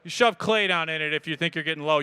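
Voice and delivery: normal talking voice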